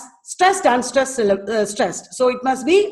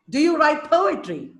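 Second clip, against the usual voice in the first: POetry raised at the start, then falling; first-syllable stress; 4 semitones higher than usual. Shown as a demonstration. Teacher puts the dactyl in a question, stressing po in poetry. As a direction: lift po in poetry within the question. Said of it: "First syllable is stressed".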